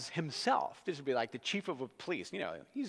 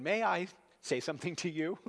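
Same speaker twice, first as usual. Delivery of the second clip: a hint of a polite, refined gentleman; lightly voiced courteous request; distinguished Greek voice; 5 semitones higher than usual. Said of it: "maybe most distinguished Greek voice".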